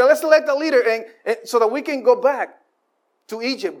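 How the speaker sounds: high, eager rallying call; mock Israelites. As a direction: cheer the plan to go back. Israelites voiced again.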